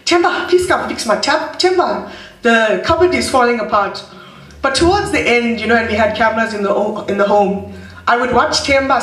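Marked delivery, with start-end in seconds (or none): 0.0-4.0 calling like Granny Ma. Retold or imitated. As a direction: call across the house for help, a hint of granny. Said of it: "the guy Granny Ma would call".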